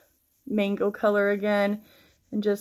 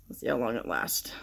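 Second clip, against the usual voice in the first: whisper; 9 semitones lower, 7 dB quieter than usual. Real, not acted. Dogs just told to hush.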